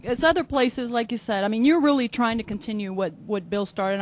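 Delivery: talking through a mouthful; words around a bite of pastry; chewing while talking. Real, not acted. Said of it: "I'm munching because your, your things are so good".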